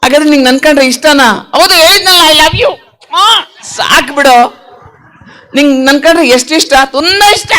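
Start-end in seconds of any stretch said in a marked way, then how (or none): 1.5-4.6 insistent puppet. Acted. Puppet declares love to the host, insistent puppet voice. 6.9-7.5 high-pitched puppet voice; gushing puppet. Acted. Puppet says how much it likes host, gushing puppet voice.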